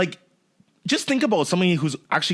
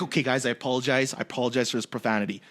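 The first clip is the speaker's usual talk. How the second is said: softer, quick, overly apologetic mumble; a hint of a sheepish, too-polite Canadian; polite Canadian apology; 3 semitones lower, 6 dB quieter, faster than usual. Speaker imitating a Canadian apologizing to an audience, softer and quick. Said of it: "the contrast of Canadians getting mad".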